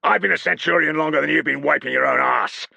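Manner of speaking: full-volume dressing-down; parade ground volume. A narrator's reading. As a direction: roar it across the parade ground. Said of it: "used his full parade ground volume".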